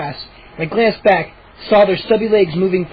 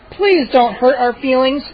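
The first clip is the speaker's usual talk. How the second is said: pouty rasp; 5 semitones higher than usual. Acted. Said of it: "Chip rasped".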